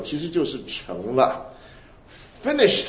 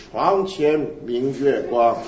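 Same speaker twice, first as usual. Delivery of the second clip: slow poem recital; much slower than usual. Shown as a demonstration. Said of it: "就是".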